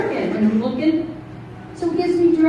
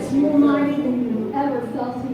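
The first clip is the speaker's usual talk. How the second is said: altar call; 2 semitones higher than usual. Acted. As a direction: invite them to the altar. Altar call over piano.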